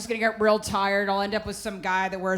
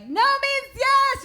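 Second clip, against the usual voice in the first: retold mock scream; 3 dB louder, much slower than usual. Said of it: "She just started screaming".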